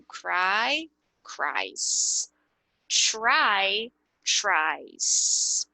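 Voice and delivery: CRIES and TRIES as one syllable with hissed ending; CRY, CRIES, TRY, TRIES, no E sounded; only the S. Shown as a demonstration. Teacher modelling verb pairs, CRIES and TRIES ending in just S. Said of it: "Só vai falar o S".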